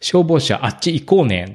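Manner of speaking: lightly imitated toddler's odd Kansai dialect; mysterious Kansai dialect. Young daughter wanting to go see the fire truck, in mock Kansai dialect. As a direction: mimic a small child's made-up Kansai talk. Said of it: "謎の関西弁みたいな感".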